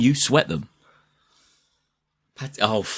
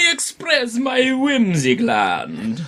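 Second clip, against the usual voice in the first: high shout; 12 semitones higher, much slower than usual. Pretend. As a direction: belt it out high and slow. Shouted joke line.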